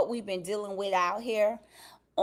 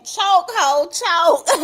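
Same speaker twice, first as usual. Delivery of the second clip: loud words broken by laughter; laughing while reading; 6 semitones higher, 9 dB louder, much slower than usual. Real, not acted. Host reading viewers' teasing chat aloud, laughing through it. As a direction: read it out as you crack up.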